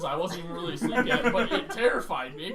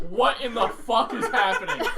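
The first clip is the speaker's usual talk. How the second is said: bewildered call; 4 semitones higher, 8 dB louder than usual. Retold or imitated. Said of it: "looking around like".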